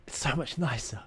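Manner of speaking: breathy whispered "It's so much nicer". Retold or imitated. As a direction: sigh the line out in a whisper. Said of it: "And I'm like".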